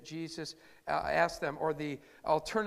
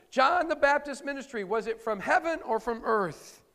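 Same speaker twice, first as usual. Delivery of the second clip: forceful challenge; 5 semitones higher, 6 dB louder than usual. Acted. Preacher voicing Jesus' challenge.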